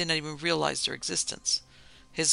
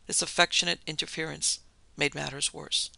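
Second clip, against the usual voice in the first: ordinary delivery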